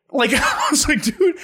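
high yelped dude; a sudden cry of disbelief; exasperated. Retold or imitated. Retold exasperation during sobriety test.

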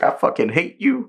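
high mocking quote; lightly voiced angry demon. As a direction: spit it like a sulky demon. Mimicking upper rank three.

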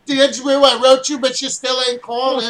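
Jewish voice. Acted. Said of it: "I should have done it in a Jewish voice".

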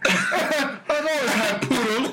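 slow, hammed-up posh British accent; mock posh British accent. Claims a lifelong poodle, in a mock posh British accent. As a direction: draw it out like a stuffy British gent. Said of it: "more and more like Mister Peanut".

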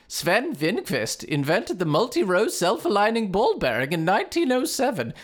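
put-on reading aloud in a growing Swedish accent. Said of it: "The accent really changed halfway through".

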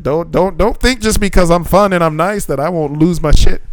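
high, worked-up comic warning; imitating a teacher near snapping; retold warning.

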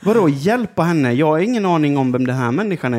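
loud, incredulous protest; exasperated. Retold or imitated. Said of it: "Jag bara".

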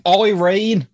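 talking through a mouthful of peanut butter; mouth full of peanut butter. Real, not acted. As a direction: mouth full, words thick. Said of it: "how you do that with peanut butter in your mouth".

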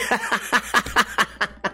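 long, high cackling laugh; real laughing fit. Real, not acted. Podcaster tickled by his beeping computer story, helpless laughter. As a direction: crack up at your own joke.

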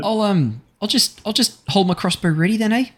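high eager mercenary voice; Harry in character. Acted. Harry telling the party he'll shoot, high and keen.

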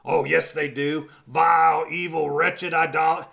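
mildly mocking a condemning churchgoer; half-hearted scornful jab at Vile; mock condemnation. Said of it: "that's what the church desires to say".

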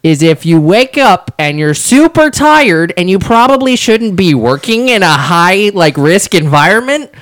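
giggling her way through the safety tip; laughing through it. Retold or imitated. Coworker retelling the tip, breaking into laughter. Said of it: "She's like".

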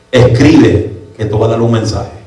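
loud, lowish command; voice of God. Retold or imitated. God telling a sick preacher to write, commanding voice. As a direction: issue a weighty divine order. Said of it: "oigo la voz de Dios que me dice".

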